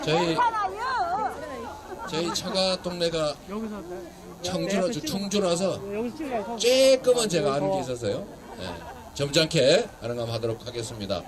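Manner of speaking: low, easy conversational voice; done shouting, restrained. Real, not acted. Politician easing off for courteous Chungcheong locals, low and restrained. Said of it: "소리 지르는 건 그만하고".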